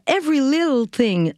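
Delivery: A song title said with a Lac-Saint-Jean French accent; English title in a Lac-Saint-Jean accent; Quebec-accented English. Real, not acted. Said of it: "j'ai toujours de la misère à le dire".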